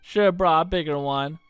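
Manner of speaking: put-on cocky young troublemaker; Kid voice. Kid teasing Serge, lightly voiced brash girl. Kid voicing a game line.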